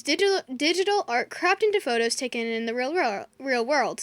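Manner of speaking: tripping over the words; stumbling and restarting words; stuttering. Real, not acted.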